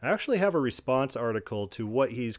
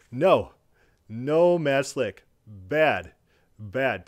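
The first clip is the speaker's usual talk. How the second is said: louder scolding, like chiding a dog; sharp louder rebuke, no no, bad bad; 6 dB louder, much slower than usual. Real, not acted. Scolding opponent like a pet.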